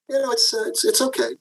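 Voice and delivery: hesitant, lukewarm retold answer; hedge, stumbling a little, mildly acted; unenthusiastic. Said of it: "you're not very enthusiastic".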